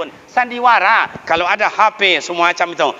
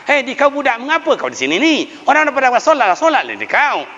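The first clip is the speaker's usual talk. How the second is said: scolding elder; 7 semitones higher, faster than usual. Retold or imitated. Elder scolds boy at stall.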